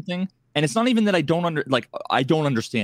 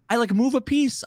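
ordinary talk, nothing marked

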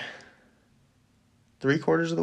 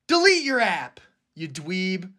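mock annoyed; 4 semitones higher than usual. Mock insult ending the rant.

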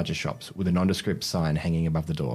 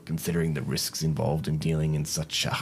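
shady shopkeeper voice. Acted.

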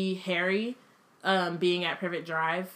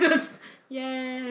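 slow, higher, deadpan yay; unexcited yay; 5 semitones higher, slower than usual. Shown as a demonstration. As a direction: say yay with zero enthusiasm. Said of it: "sound not very excited".

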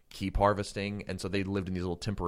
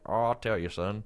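farmer voice; 2 semitones higher than usual. Pretend. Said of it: "that was my farmer voice".

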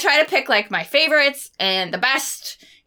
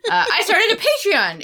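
trying not to laugh; 8 semitones higher than usual. Real, not acted. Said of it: "let me try this again".

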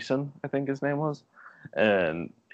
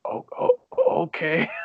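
mock starstruck kid; 10 semitones higher than usual. Starstruck boy.

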